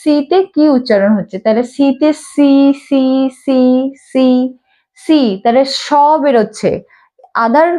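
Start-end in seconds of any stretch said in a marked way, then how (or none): 1.7-5.2 "সি" repeated slowly with a pause after each; repeated letter drill. Shown as a demonstration. Teacher asking what sound leaves the mouth, drilling "সি". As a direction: isolate each "সি" so its opening s sound is heard. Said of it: "মুখ দিয়ে আওয়াজটা কি বেরোচ্ছে".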